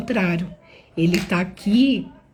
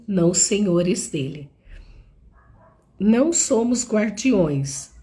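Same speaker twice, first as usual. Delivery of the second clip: raised, emphatic Bible reading; scripture reading. Acted. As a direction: read the passage with conviction. Reads the Bible passage.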